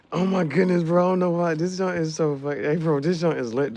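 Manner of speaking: loud, high hyped-up bro. Acted. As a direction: gush about the place loudly. Hyped customer voice.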